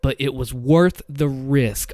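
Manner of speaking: firm, slowing on the risk; confident. Shown as a demonstration. Voice actor showing the character regain confidence, firm. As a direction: insist that they will agree. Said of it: "I'm confident again".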